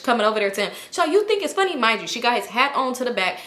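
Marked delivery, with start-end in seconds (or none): 1.1-1.7 high-pitched mock outrage; high, indignant impression of a friend; retold tearful anger. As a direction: imitate an upset friend lashing out, pitched up. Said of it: "and she's crying".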